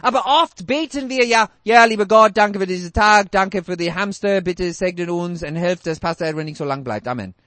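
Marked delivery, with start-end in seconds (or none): 1.6-7.3 rattled-off, careless bedtime prayer that sinks lower; mocking a half-hearted churchgoer's prayer; mock lazy prayer. Preacher mocks congregation's careless prayer, rattling it off. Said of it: "Was für ein Quatschgebet ist das?".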